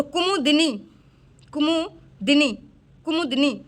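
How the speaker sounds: कुमुदिनी slowly as ku-mu, di-nee; careful, broken-up कुमुदिनी; sounded out. Shown as a demonstration. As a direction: dictate कुमुदिनी in separated parts. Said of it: "देखो कुमुदिनी किस तरीके से लिखा जाता है".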